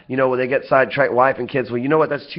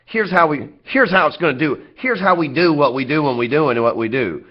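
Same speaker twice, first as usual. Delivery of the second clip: playful, lightly exaggerated Southern talk; Southern accent. Shown as a demonstration. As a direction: lean into a Southern accent for fun. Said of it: "So I like to talk South".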